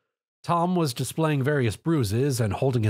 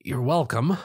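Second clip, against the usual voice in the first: groan. A narrator's reading. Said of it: "Tom groaned".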